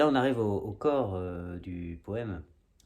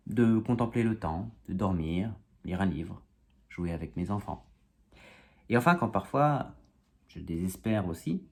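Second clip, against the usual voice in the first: spoken-word poem in measured phrases; declaimed verse with lifted phrase ends; poem recitation; 5 dB louder than usual. Acted. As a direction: recite a wry poem, line by line. Recites own comic poem.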